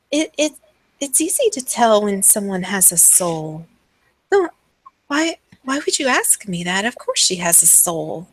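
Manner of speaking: lightly voiced halting madwoman; a touch of puzzled offence, starting with a stammer; unsettled madwoman. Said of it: "she's like".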